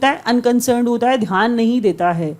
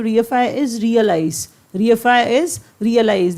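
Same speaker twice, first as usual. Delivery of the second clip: very slow, each word set apart; slow dictation; much slower than usual. Shown as a demonstration. Teacher repeating a memory tip to students, very slowly.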